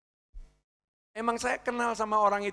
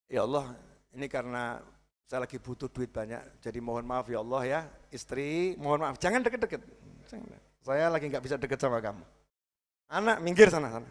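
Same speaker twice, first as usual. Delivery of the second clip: soft, lower mumbling apology; hushed sheepish excuse; 5 semitones lower, 6 dB quieter than usual. Retold or imitated. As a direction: sheepishly wave wife and child off. Excuse prayer, pushing family away. (lirih, malu-malu menolak istri dan anak)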